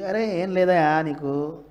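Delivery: slow, easy reassurance; calm the patient down gently; doctor soothing a worried patient, slowly; reassuring doctor. Retold or imitated.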